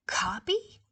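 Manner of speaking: breathy whispered echo; shocked child's whisper; whispered disbelief. Acted. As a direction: mutter it to yourself, stunned. Repeated in whisper.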